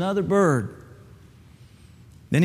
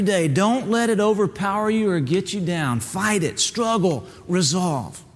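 a hint of a stern, higher mentor voice; lightly voiced turkey mentor; 5 semitones higher than usual. Mentor tells Bubba hard truths, lightly voiced stern teacher. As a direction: gently lecture the young bird.

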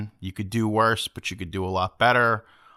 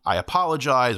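raised-pitch, deliberate apology; nice and clear; 5 semitones higher than usual. Shown as a demonstration. Moviegoer shows how to be nice before a fight, polite and clear. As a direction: apologize clearly so everyone hears. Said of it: "you're nice about it and you're clear".

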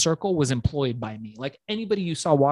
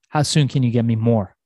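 eager demand; 3 semitones lower, 7 dB louder than usual. Retold or imitated. Dealer eager for more pills.

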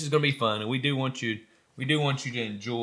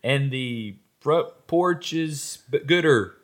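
loud, higher-pitched pretend commercial; mock ad slogan; 5 semitones higher, 8 dB louder than usual. Podcaster plugging an unofficial coffee sponsor, loud mock ad read. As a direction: belt out a homemade sponsor jingle line, spoken.

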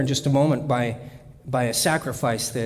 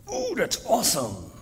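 mock cheerful reply; 6 semitones higher than usual.

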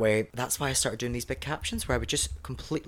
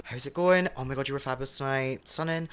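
friendly greeting; 3 semitones higher than usual. Retold or imitated. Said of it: "you need to be really".

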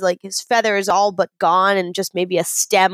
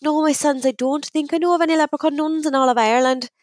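higher-pitched nun figure in a joke; Mother Superior; 4 semitones higher than usual. Acted. Mother Superior answering two leprechauns, higher nun voice. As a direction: put on a nun's voice, pitched up. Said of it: "She goes".

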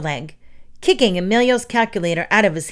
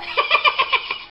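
very high, rapid cackle; shrieky villain giggle; maniacal laugh. Acted. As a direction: cackle madly in triumph. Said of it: "laughed like a maniac".

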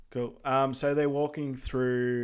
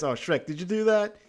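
louder, fast, lightly voiced Donkey; Donkey's voice; 4 semitones higher, 5 dB louder, faster than usual. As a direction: complain in a rush like a grossed-out Donkey. Donkey complaining about the smell.

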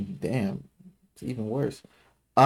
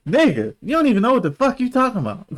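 high loud mock yell; retold yell; 11 semitones higher, 5 dB louder than usual. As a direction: act out the phone rant. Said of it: "I was like".

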